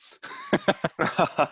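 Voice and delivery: real burst of high laughter; laughing. Real, not acted. Host laughs at forgetting to share the screen, laughing. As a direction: laugh hard at the slip-up.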